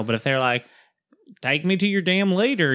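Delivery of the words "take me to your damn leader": lightly voiced Southern alien; Southern accent. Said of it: "alien that has a Southern accent".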